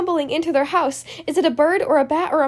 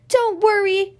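reassuring call; 6 semitones higher, 3 dB louder than usual. Acted. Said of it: "cries Stickman".

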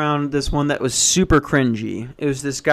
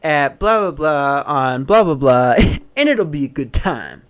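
mocking douchey guy. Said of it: "he's talking like this".

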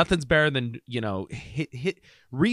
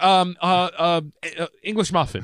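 flustered stammer, pitched up; mock freak-out; 4 semitones higher than usual. Wife blurts an order to her mad husband, mock-flustered. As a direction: imitate someone grasping for an order. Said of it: "Like, freaks out".

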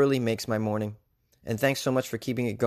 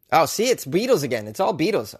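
lilting New Zealand attempt slipping into Liverpool; higher, swooping botched New Zealand accent sliding toward Liverpool; bad New Zealand accent; 5 semitones higher, 4 dB louder than usual. Shown as a demonstration. Comedian catching his accent slip, botched New Zealand turning Liverpool. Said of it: "real shitty New Zealand accent".

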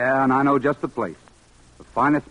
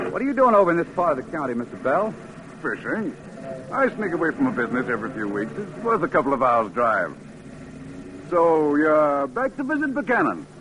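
put-on genial older man; 3 semitones higher than usual. Mr Bell chatting while driving.

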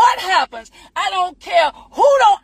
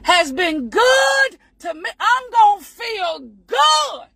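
testifying praise; 3 semitones higher than usual. Real, not acted. Spirited praise, voice lifting.

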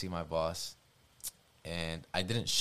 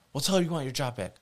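furious grandfather; 7 semitones higher, 5 dB louder than usual. Retold or imitated. Grandfather flipped, retold.

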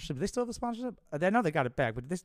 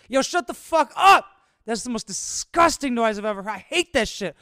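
very loud, much higher furious yell; angry neighbor; 8 semitones higher, 9 dB louder than usual. A narrator's reading. Angry neighbor yelling at the bird, furious shout. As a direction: scream at the bird to shut up.

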